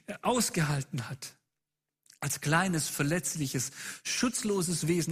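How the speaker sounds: impassioned preaching, insistent questions piled up; eindringliche Predigt. Real, not acted. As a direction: press the congregation hard, line after line. Preacher urges listeners, builds intensity. (eindringlich und leidenschaftlich gepredigt)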